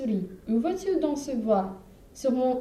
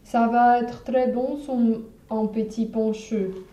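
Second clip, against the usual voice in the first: a lightly voiced monster, loud and gloating, slowing at the end; hungry gruffalo; 2 semitones lower, 4 dB louder than usual. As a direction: relish the meal to come. Gruffalo gloats over mouse.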